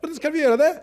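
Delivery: high, desperate plea to God; desperate cry to God. Retold or imitated. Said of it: "begynte å skrike".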